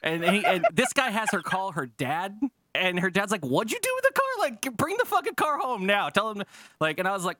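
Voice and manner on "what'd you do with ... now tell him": much higher, strained mock dad yelling down the phone; imitating angry dad. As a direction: play the furious father demanding the car home.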